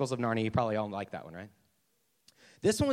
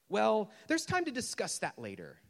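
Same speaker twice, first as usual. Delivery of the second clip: stalling ghost; 5 semitones higher than usual. Acted.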